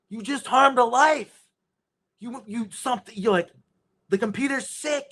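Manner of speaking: frantic woman yelling at the computer; freaking out. Retold or imitated. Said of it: "she fucking freaked out".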